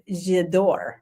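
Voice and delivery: J'adore in a light, self-mocking French accent; lousy French accent. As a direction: say J'adore the French way, a bit clumsily. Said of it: "that's my lousy French accent".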